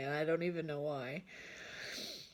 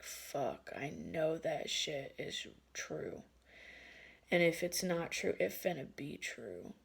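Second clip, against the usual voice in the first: foreboding; 6 dB quieter than usual. Retold or imitated. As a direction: voice a sinking certainty, quietly. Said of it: "foreboding feeling".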